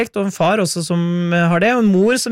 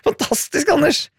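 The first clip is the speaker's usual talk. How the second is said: bursting into a laugh on Fantastisk, pitched way up; 12 semitones higher than usual. Real, not acted. Radio host laughing at listener Anders's Troika find. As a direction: laugh out the praise, delighted.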